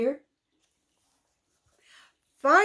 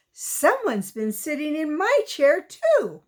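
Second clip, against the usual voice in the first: Mama Bear voice; 4 semitones higher than usual. Acted. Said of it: "in her medium-sized voice".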